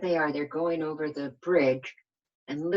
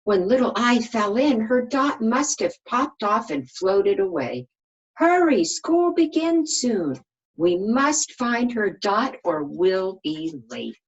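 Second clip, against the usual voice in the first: urgent hurry; 6 semitones higher, 5 dB louder than usual. Acted. Capital T hurrying the letters to find the dot. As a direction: urge them on, worried about being late.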